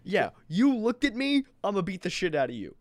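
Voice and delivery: squeaky high mock threat, quick; a thug's threat in a high cartoon voice. Voicing Wolf picking fights.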